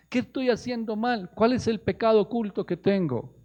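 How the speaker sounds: high-voiced searching question; earnest self-questioning. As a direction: ask it aloud as an urgent acted self-examination. Models believer's self-questioning prayer.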